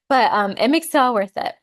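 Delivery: pushing through tears; teary-eyed. Real, not acted. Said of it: "I'm getting teary-eyed".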